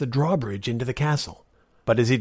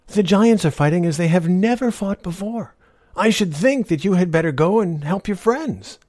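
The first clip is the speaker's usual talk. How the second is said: higher, lightly voiced old woman; a sly old woman, sweetly persuasive; old beggar woman; 8 semitones higher, 5 dB louder than usual. Old woman tempts knight.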